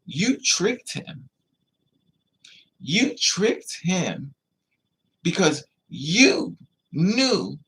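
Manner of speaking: slow, weighty, accusing each word; slow pointed accusation; slow accusing emphasis. Real, not acted. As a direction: drag it out like an indictment. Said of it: "slow accusing emphasis".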